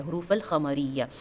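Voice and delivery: "हुरूफ अल खमरिया" with an audible l; careful model of "हुरूफ अल खमरिया", l distinct; clear lam. Shown as a demonstration. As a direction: sound out the l in "अल" before "खमरिया". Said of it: "उस rule को clearly reflect करता है".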